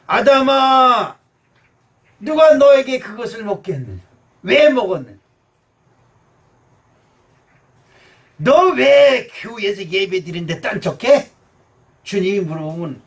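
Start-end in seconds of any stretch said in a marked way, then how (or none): 0.1-11.3 God calling Adam. Acted. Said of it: "하나님이 기회를 주십니다".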